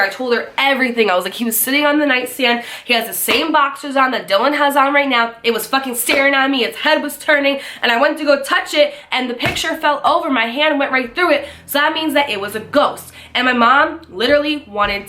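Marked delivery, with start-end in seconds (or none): 1.3-13.1 higher-pitched, breathless-paced account; frantic insisting. Retold or imitated. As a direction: pile up the evidence, desperate to be believed. Retold frantic insisting to mom.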